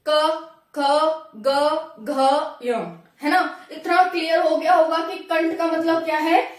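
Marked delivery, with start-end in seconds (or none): 0.1-3.0 क ख ग घ अ each voiced from the throat, spaced apart; teacher demonstrating throat consonants क ख ग घ अ; throat sounds demo. Shown as a demonstration. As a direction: sound out क, ख, ग, घ, अ slowly from the throat, one at a time. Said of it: "सिर्फ यहाँ कंठ से आवाज आई".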